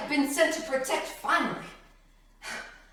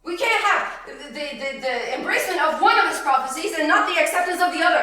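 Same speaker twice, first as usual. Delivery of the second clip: insistent argument; 3 semitones higher, 4 dB louder than usual. Real, not acted.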